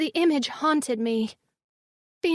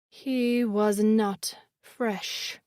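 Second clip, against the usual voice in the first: slow eerie creature voice; 4 semitones lower, much slower than usual. A narrator's reading. Glazer verdict, very slow.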